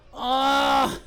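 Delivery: long groan of effort; strained groan. Real, not acted. Streamer struggling in yoga pose, strained groan.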